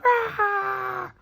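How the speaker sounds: high sudden burst of noise; a jolt of chaotic energy; frantic yell. Retold or imitated. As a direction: let out a wild frustrated cry. Frantic energy, vocal outburst.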